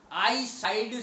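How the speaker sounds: "साइड" closed on a voiced d; wrong pronunciation. Shown as a demonstration. Teacher showing students the faulty word, mispronounced with final D. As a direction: end "साइड" on D instead of T. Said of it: "शब्द गलत है".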